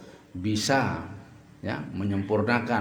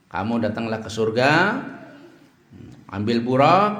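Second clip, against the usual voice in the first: loud commanding call; divine command; 7 dB louder than usual. Acted. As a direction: order Jibril to fetch the burak. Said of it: "Allah mewahyukan kepada Jibril".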